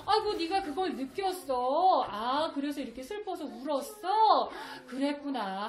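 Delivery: put-on gently mirror the child's feeling; empathetic parent. Shown as a demonstration. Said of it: "반드시 아이가 어떤 감정을 표현하면".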